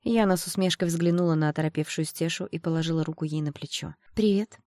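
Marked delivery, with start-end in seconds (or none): 4.1-4.6 higher, honeyed veiled threat; lightly threatening sweetness; sweetly menacing. A narrator's reading. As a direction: greet them sweetly with menace underneath. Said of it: "с ласковой угрозой в голосе".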